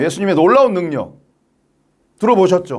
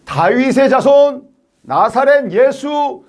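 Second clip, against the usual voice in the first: high, sustained proclamation; exalted shout building in pitch; crying out praise; 5 semitones higher than usual. Acted. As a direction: call out each title slowly and high. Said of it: "외친 거예요".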